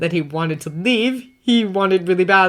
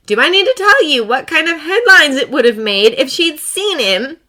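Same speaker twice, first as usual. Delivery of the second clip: higher, louder clipped outrage; tight anger; 10 semitones higher, 8 dB louder than usual. Acted. Potts storms in angry about the visitor, tight-voiced. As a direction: hold the fury in, barely. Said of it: "voice tight".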